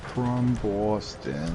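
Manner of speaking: mock Boston accent. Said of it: "I wish I could do a good Boston accent".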